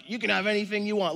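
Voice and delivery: fast, high, eager yes-to-everything dad; indulgent dad. Retold or imitated. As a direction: gush like a pushover dad. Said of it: "Disneyland dad".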